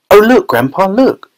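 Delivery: put-on high-pitched child's excitement; excited cry. A narrator's reading. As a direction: urge Grandpa to look, pitch leaping up. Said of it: "cried Charlie".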